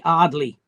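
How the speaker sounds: "Ardley" with the initial H dropped, Sunderland style. Shown as a demonstration. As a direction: leave the H off the front of "Ardley". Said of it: "that H drop where they say".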